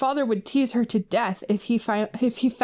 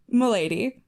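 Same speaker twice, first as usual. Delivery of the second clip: hammed-up neckbeard "Milady" with a rising end; cringe milady voice. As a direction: tip the fedora with "Milady". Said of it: "It doesn't say that, but".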